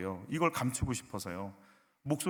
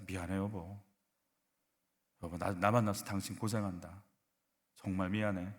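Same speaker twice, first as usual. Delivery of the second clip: low, soft apology to a spouse; sincere apology; 5 semitones lower, 7 dB quieter than usual. Acted. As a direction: confess quietly and tenderly.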